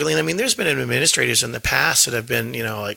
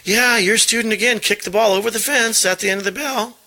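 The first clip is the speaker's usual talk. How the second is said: imitating recess coach; 8 semitones higher, 4 dB louder than usual. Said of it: "the recess coaches go".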